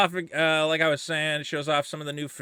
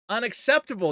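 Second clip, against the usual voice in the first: mock indignant echo; 6 semitones higher than usual. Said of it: "he says".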